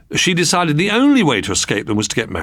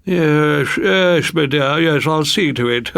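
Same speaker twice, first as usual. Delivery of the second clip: murmur; 5 semitones higher, slower than usual. A narrator's reading. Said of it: "would murmur".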